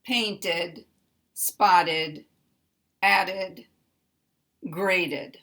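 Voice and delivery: Painted with a clear vowel before the ed; past tense with vowel. Shown as a demonstration. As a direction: say spotted, added, graded with an extra syllable. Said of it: "the D and the D".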